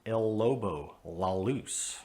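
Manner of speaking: "lobo" and "luz" with a dark, back L; dark American L. Shown as a demonstration. Teacher showing the wrong Spanish L. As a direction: let the L in "lobo" go dark and heavy.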